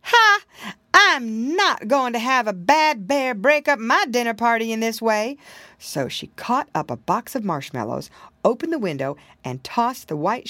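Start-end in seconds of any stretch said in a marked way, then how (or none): 0.0-5.4 loud, high defiant outburst; indignant cry. A narrator's reading. Hostess refusing to let a bear spoil her party, indignant cry. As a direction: start on a big high Ha, then protest firmly. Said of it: "the Sadie lady cried out".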